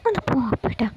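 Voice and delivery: affectionate mock protest; coy, babyish teasing. A narrator's reading. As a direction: playfully shoo him away, coyly. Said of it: "അവൾ കൊഞ്ചിക്കൊണ്ട് പറഞ്ഞു".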